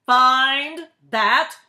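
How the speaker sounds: very slow, loud, high roar; President roaring. A narrator's reading. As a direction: roar each word as an order. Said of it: "he roared".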